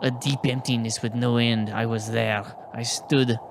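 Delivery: a hint of French accent in a solemn reading; drifting French accent. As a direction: let the testimony slip lightly into a French accent. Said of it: "now it's turning into, like, a French accent".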